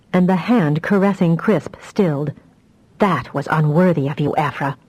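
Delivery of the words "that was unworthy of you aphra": hoarse whisper. Acted. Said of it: "she said in a hoarse whisper".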